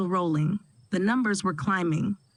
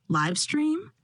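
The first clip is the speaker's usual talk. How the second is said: shocked; 8 semitones higher than usual. A narrator's reading. Leslie shocked.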